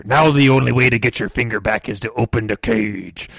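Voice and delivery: a lightly voiced pirate parrot talking through its teeth. Parrot holding the host's finger hostage, in a light parrot voice. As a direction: play a menacing pirate parrot, low-key. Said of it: "I'm talking like this 'cause I have to talk through my parody teeth".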